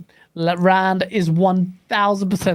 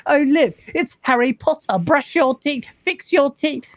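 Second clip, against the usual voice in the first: higher-pitched jeering imitation of gamers; imitated online heckling; mocking lobby taunt; 7 semitones higher than usual. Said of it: "every time there's, like, beef".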